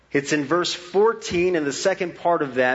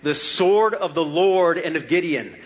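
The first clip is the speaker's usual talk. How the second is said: loud battle cry; 2 semitones higher than usual. Shown as a demonstration. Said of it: "they cried".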